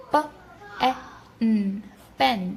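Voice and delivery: slow segmenting of پین into sounds, then blending; sounding out pen. Shown as a demonstration. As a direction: stretch each sound, then join. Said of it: "آپ نے note کیا کہ ان تینوں words میں". (پین کو آواز بہ آواز آہستہ بولنا)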